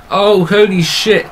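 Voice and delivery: slow stunned exclamation; surprised exclamation. Real, not acted. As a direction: react in disbelief to the dive. Shocked by a dive.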